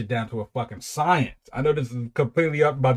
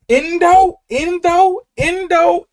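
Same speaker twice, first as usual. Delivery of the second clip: baffled repeating; 9 dB louder, much slower than usual. Real, not acted. Repeating lyric word, baffled.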